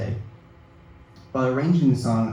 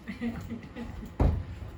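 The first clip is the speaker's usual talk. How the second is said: soft laugh; 12 semitones higher, 9 dB quieter than usual. Real, not acted. Laughing at own YouTube habit.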